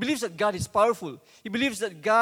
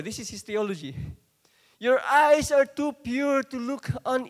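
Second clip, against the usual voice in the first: impassioned prayer; 5 semitones higher, 6 dB louder than usual. Acted. Prophet's anguished prayer quoted.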